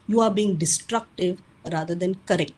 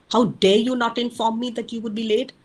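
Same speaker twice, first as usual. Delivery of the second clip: a mild demo of a blaming parent; accusing demo. Shown as a demonstration. Parent scolding a teen for coming home late, mildly accusing. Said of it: "Here you're screaming, yelling, accusing, and blaming".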